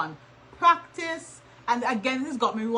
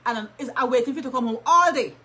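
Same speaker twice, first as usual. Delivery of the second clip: nagging complaint; 5 dB louder than usual. Shown as a demonstration. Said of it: "Don't say".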